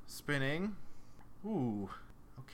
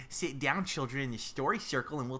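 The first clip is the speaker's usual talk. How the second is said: kindergarten teacher voice; 6 semitones higher than usual. Pretend. Teacher voice to story circle.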